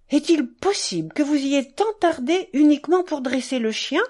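reproachful. Acted. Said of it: "d'un ton de reproche involontaire".

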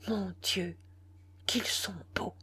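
soft, hushed murmur. A narrator's reading. Priest beholding the two dead lovers, hushed murmur. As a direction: murmur it quietly under your breath. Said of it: "Et le prêtre murmura".

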